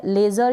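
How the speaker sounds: लेज़र with the final r sounded; either reading accepted. Shown as a demonstration. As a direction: end लेज़र on an audible r. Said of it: "किसी भी तरीके से आप read कर दें". (लेज़र के अंत में र बोलकर)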